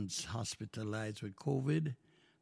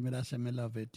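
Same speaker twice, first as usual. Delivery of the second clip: Jamaican patois; 2 semitones lower, faster than usual. Shown as a demonstration. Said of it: "In other words".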